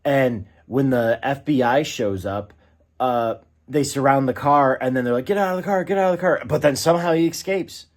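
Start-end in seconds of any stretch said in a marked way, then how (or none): 5.2-6.4 raised, higher barked command, imitating agents; a mild mock yell of "get out of the car"; mock FBI shout.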